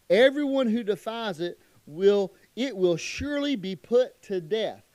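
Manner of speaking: loud, weighty reading of the verse; emphatic scripture reading. Acted. Preacher reading the Sabbath law to the congregation, loud and weighty. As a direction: hammer home the death sentence.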